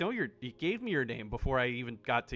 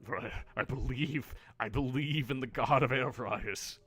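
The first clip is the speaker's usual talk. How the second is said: mock pious believer. Player praising the air fryer god, mock reverence. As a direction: play the earnest convert, tongue in cheek.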